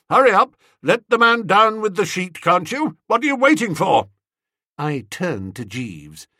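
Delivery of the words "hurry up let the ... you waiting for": high, loud, pushing fast; eager impatience. A narrator's reading. Aunt hurrying the nephew along, loud and eager. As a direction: hurry him along with gusto. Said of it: "speaking with real enthusiasm".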